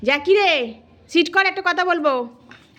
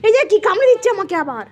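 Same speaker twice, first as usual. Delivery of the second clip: fast, higher tattling; playful complaint; 4 semitones higher, much faster than usual. Pretend. Owner telling on the biting dog, playful complaint. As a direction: rattle off a mock complaint about being bitten.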